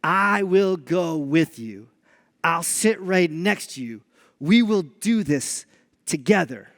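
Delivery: put-on slow, low, gentle promise to a scared child; reassuring dad. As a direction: soothe him into it slowly. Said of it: "I said to my child".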